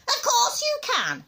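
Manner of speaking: high, slow, indignant retort; haughty, drawn-out contradiction; snappish grandma. A narrator's reading. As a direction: snap back in a high granny voice. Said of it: "she snapped".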